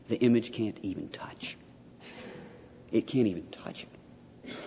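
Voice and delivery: hushed, breathy whisper for emphasis. Real, not acted. Lecturer whispering to students about the cross. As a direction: drop to a whisper, letting the point sink in.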